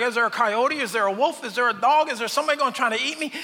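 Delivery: lightly voiced jittery sheep, rapid questions; quick, anxious mock scanning for danger; paranoid sheep. Sheep looking around for predators, mock paranoid. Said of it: "a paranoid, kind of schizophrenic sheep".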